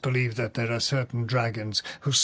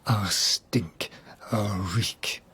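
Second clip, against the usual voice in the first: whispered; 5 semitones lower, much slower than usual. Acted. Brooding on murderous smell of humanity.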